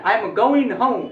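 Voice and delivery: I am going home said slowly with ou glide; slow model sentence; slow British demo. Shown as a demonstration. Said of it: "ऐसे बोलना है".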